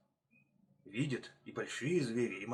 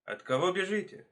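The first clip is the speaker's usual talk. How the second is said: inquisitive fox; 5 semitones higher than usual. Acted. Fox calling to running hares.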